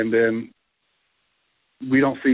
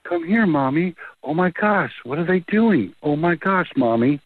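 lightly voiced scared little girl, a bit higher and slow; imitating a little girl; 5 semitones higher than usual. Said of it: "You hear this little girl going".

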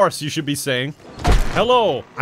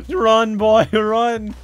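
loud, higher call to run; egging him on, louder; urgent cheer; 6 semitones higher, 5 dB louder, much slower than usual. Real, not acted. Streamer yelling at the fleeing man to run, excited.

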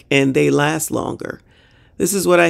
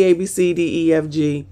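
ordinary talk

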